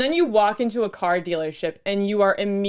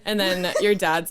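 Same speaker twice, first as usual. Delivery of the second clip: ordinary talk, nothing marked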